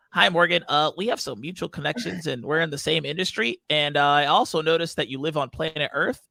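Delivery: lightly put-on cheesy salesperson reading a template; send-up of a generic sales message; mocking message voice. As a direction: parody a cold networking pitch in a lilting voice. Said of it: "I'm gonna do this voice".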